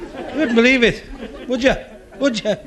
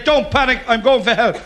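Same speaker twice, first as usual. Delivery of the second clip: a hint of a high, loud captain calling out; mock calm order from a captain in wellies; captain reassuring; 5 semitones higher, 3 dB louder than usual. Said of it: "he said".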